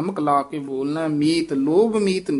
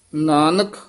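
ਨਾਨਕ with a short rest after it; ਨਾਨਕ ਉੱਤੇ ਠਮਕ; brief pause; slower than usual. Shown as a demonstration. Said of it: "ਇੱਥੇ ਯਮਕ ਲਾ ਦੇਣੀ ਹੈ".

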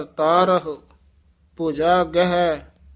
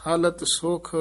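ਹਲਤ ਸੁਖ said softly, then a short halt after ਸੁਖ; brief pause after ਸੁਖ; 4 dB quieter, slower than usual. Shown as a demonstration. Teacher showing the short pause after ਹਲਤ ਸੁਖ, softly. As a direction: stop briefly on ਸੁਖ before going on. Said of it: "ਇੱਥੇ ਠਮਕ".

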